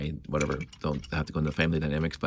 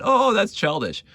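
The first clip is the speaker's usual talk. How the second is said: higher, slowed sneer of a snooty student; mock dismissive; 13 semitones higher, 3 dB louder than usual. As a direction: drawl it like a condescending classmate. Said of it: "because you're in college".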